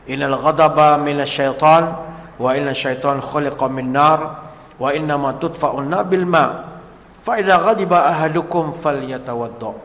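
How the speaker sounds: preacher reciting the Prophet's words in Arabic; hadith recitation. Acted. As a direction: intone the hadith to the congregation.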